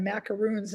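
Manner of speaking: macaroons with a long oo in the last syllable; mispronounced macarons. Shown as a demonstration. Host owning up to her mistake, oo in macaroons. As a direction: say macarons wrongly, as English macaroons. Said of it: "I mispronounced".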